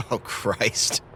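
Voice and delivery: softly laughing it out, barely voiced; a disbelieving laugh under the words. Scene: Tony reacting to the erotic waffle truck, laughing.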